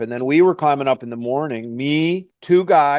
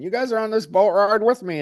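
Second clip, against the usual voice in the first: delirious climber; 7 semitones higher than usual. Retold or imitated. Delirious climber imagines a boat.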